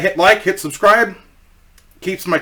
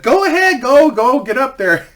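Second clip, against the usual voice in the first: much higher, coaxing mom voice; mom urging; 9 semitones higher than usual. Retold or imitated. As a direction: push the shy kid forward, egging on. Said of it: "and she said".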